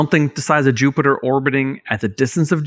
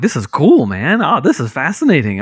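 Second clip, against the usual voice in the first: eager, lifted and a bit louder; excited; 3 semitones higher, 4 dB louder than usual. Retold or imitated. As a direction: gush about something cool. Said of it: "And I'm like".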